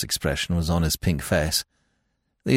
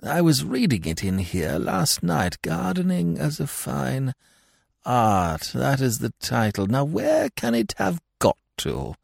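put-on high-pitched, dithering old lord; absent-minded lord; 9 semitones higher than usual. Lord asking Connie about his mislaid book, absent-minded. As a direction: play a vague lord, pitched well up.

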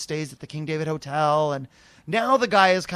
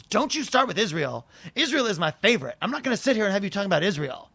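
mock indignant outburst, slightly raised; weird anger; 3 semitones higher than usual. Woman warning him off Israel, mildly mock-angry. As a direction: imitate a touchy, angry client. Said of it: "there's a weird anger on this".

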